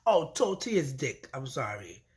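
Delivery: normal talking voice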